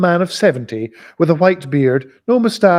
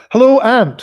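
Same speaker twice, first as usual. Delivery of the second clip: pitched well up and louder; much higher greeting; 10 semitones higher, 5 dB louder than usual. Shown as a demonstration. Totemic Smith greeting his haggard aunt, high and bright. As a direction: sing out the hello.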